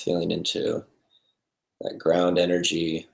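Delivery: calm, unhurried meditation guidance with long pauses; guided meditation. Real, not acted. Meditation teacher settling the group into breath and body, calm and spacious. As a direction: lead them gently into stillness, leaving space between phrases.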